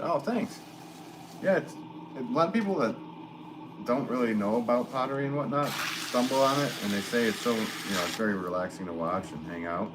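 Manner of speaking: hammed-up Irish brogue; light Irish accent. Potter thanks a viewer in a mock Irish accent. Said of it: "so I'm going with that accent today".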